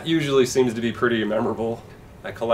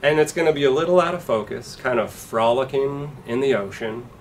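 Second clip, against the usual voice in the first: slick record executive, pitched up at times; 3 semitones higher, 4 dB louder than usual. Retold or imitated. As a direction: talk like a smarmy fifties record man. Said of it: "they'd be like".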